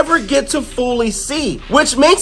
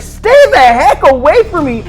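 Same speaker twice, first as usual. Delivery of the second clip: higher, acted angry outburst; pissed off; 5 semitones higher, 4 dB louder than usual. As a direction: warn them off in mock fury. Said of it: "she's just pissed".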